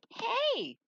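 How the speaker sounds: sharp, high call of Hey; shouted hey. Acted. Character calling out, a high loud shout.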